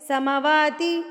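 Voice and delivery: سماواتی with the "maa" cut short; mistaken short vowel. Shown as a demonstration. Showing students a common mistake, سماواتی with short "ma". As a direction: hurry past the first long vowel in سماواتی. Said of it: "mistake میں نے دیکھی ہے".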